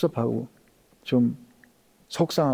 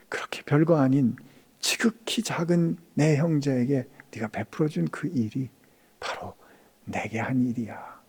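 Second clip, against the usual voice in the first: soft whispered reveal; 6 dB quieter than usual. Retold or imitated. Jesus whispering to a humble servant. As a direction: let it fall to a whisper.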